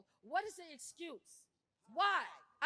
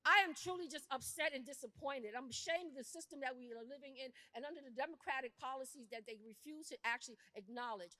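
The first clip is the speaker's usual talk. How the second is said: upset and disappointed; 4 semitones lower than usual. Real, not acted. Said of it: "I'm upset".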